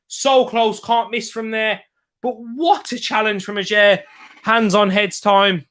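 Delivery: animated football commentary; lively match call; live play-by-play. Real, not acted. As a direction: marvel at the tackle as you call it.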